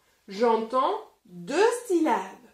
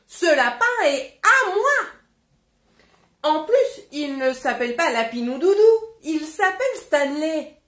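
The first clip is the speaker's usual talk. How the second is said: loud, indignant refusal, faster in the middle; Emily Brown defending her rabbit, loudly indignant; defiant girl; 5 dB louder than usual. Acted. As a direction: plant your feet and refuse. Girl refuses in read story.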